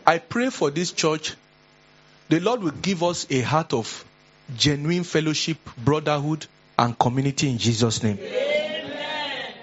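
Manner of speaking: preacher praying aloud over the church; closing prayer. Acted. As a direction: pray a blessing on them.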